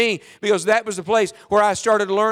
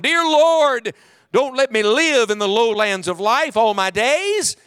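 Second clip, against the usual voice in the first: earnest hymn-like prayer, a cry on Dear Lord; prayerful plea. Acted. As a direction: pray it upward as a hymn.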